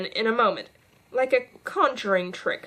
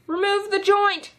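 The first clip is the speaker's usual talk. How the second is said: commanding order; 11 semitones higher, 3 dB louder than usual. A narrator's reading. Queen ordering waiters.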